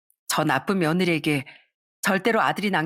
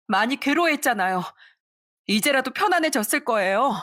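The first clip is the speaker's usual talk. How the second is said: high, defensive and falsely soothing; protesting daughter-in-law; 6 semitones higher than usual. Acted. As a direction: push back while pretending to calm her. (시어머니를 말리는 척하는 며느리의 높은 목소리)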